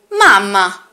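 a light little doll voice; sweet toy doll speaking. Acted. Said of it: "ma stavolta con voce da bambola".

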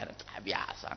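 soft whispered shrug; dismissive whisper. Acted. Wife whispering that anger is normal.

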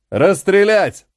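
громкий, высокий выкрик; выкрикни приказ об расстреле; приказ стрелять. Acted. Командир отдаёт приказ стрелять. (командир громко приказывает механоидам стрелять)

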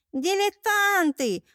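high, slow, contemptuous sneer; scornful snort. Acted. Mermaid sneering after fleeing robbers, high scornful snort. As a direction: spit the word after them with disdain. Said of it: "фыркнула боевая русалочка".

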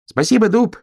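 very high, loud thanks; high loud thank-you to the oak; grateful shout. A narrator's reading. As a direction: call out your thanks. Hedgehog thanks loudly.

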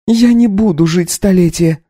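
put-on high young wife voice, taken aback; lifted, incredulous young woman; Katya, startled wife. Wife asks her husband to repeat himself.

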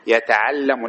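يتعلم with an "a" before the final m: yata'allamu; correcte vorm. Shown as a demonstration. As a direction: say يتعلم as yata-'al-LA-mu, fatha on the lam. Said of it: "لا نقول يتعلم".

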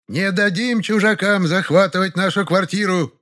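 put-on high old woman voice, howling protest; a grandma crying out unconvincingly; high wailing old woman. A narrator's reading. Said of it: "взвыла баба Варя".

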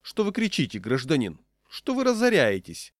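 high-pitched, scolding official woman; stern lady. A narrator's reading. Stout lady rebukes the shouting diner, stern. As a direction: scold him sharply, pitch right up. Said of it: "строго спросила".

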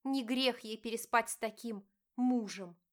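wife confronting her cheating husband, pained; hurt wife. Acted. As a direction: plead and accuse at once. Diana retorts.

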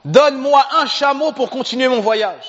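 pleading poor traveller. Acted. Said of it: "Il lui dit".

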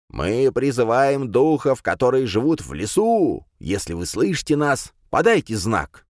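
медленно и зловеще, как тёмный властелин; нагнать жути голосом; sinister voice. Acted. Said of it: "зловещим голосом произнёс". (зловещий голос)

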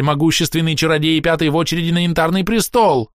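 panicking elf begging the priestess; hysterical pleading. A narrator's reading. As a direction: blurt it all out before the next spell.

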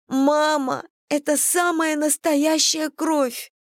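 put-on high, slow, alarmed child; frightened. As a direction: cry it out in alarm. Frightened daughter shows blood. (испуганно, высоким голосом)

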